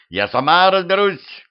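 high-pitched, insistent cry; sharp high exclamation. A narrator's reading. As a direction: call it out high, rising in indignation. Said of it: "закричала ведьма".

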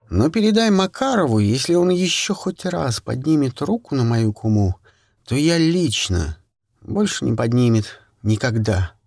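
threatening. Acted. Friend threatens abuser.

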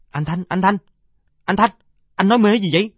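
put-on high, child calling his brother; little boy calling. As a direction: shake him awake, calling his name. Little brother wakes dreaming boy. (giọng em bé gọi anh)

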